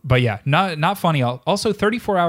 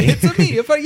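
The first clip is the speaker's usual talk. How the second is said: put-on Italian accent; 9 semitones higher, 3 dB louder, much faster than usual. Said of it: "good Italian accent".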